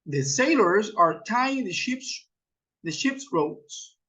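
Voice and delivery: slow, broken before the last phrase; slow model sentence. Shown as a demonstration. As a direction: model it slowly, pausing and repeating "the ship's". Models example sentence for learners. (lento, con pausa y repetición)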